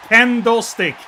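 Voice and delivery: Candlestick repeated firmly as "KEN-doh stick"; pronounced as kendo. Shown as a demonstration. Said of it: "No, I'm saying kendo".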